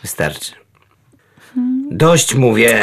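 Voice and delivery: od cichego do stanowczego ucięcia; ostrzeż cicho, potem utnij głośniej; zirytowane ostrzeżenie. Acted. Kot ma dość głaskania, gryzie. (poirytowane, narastające ostrzeżenie)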